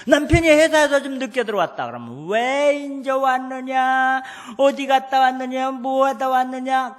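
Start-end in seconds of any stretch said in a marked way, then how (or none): 2.3-7.0 nagging interrogation. Retold or imitated. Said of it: "그래주지 마로".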